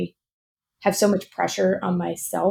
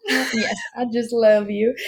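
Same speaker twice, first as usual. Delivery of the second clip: laughing; 3 semitones higher, slower than usual. Real, not acted. Affectionate laughing reply.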